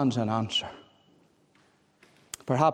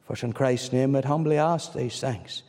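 prayer; 2 semitones lower than usual. Acted. Closing prayer.

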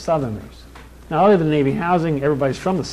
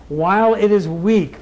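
slow, raised preacher's delivery; preaching a quotation; 4 semitones higher, 4 dB louder than usual. Real, not acted. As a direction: proclaim the quote slowly to the congregation.

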